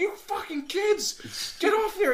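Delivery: very high furious yell; screaming. Retold or imitated. Ranger yelling kids off the kiln, high scream. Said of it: "he's literally screaming".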